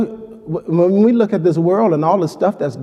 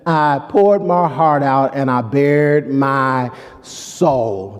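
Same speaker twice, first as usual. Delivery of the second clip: emotional quote; 2 semitones lower, slower than usual. Acted. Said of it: "That's got some emotion behind it".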